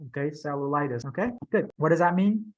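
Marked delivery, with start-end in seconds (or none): 0.4-1.1 "Cellulitis" with level first syllables, stress on LI; flat, then up. Shown as a demonstration. Teacher modelling the word for student, flat then up on "Cellulitis". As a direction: keep "Cellu" level and lift "litis". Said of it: "go flat and then up".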